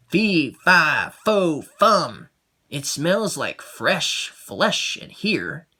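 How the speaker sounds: lightly voiced hungry giant. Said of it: "The giant shook the walls as he entered and said".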